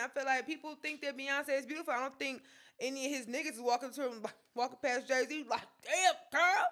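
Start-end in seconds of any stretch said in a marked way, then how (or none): 5.8-6.7 higher, louder mock catcall at a woman. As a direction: toss off a hammed-up "damn girl", pitched up and loud. Friend imagined catcalling a singer.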